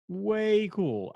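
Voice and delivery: high, loud put-on surfer voice; mock stoner enthusiasm; goofy excited. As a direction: gush like a dude. Repeats the gush.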